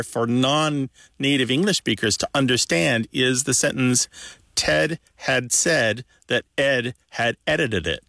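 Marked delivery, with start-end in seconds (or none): 4.5-8.0 careful reading. Shown as a demonstration. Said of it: "But if you say it".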